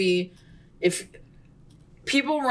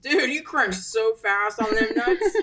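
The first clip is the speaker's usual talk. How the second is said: laughing; 2 semitones higher than usual. Real, not acted. Laughing while teasing.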